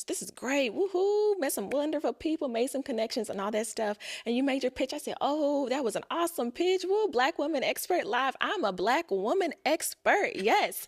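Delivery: high, bright whoops of joy; excited cheering. Retold or imitated. Guest recalling the event, cheering herself on excitedly. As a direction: cheer like you just nailed it. Retells her excitement after the pitch.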